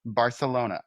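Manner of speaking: "Barcelona" with a lisped th for the c, Spanish style; Barcelona like the locals. Shown as a demonstration. Cohost asks for the local way to say Barcelona, lisped Spanish th. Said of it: "You say it like they, the locals".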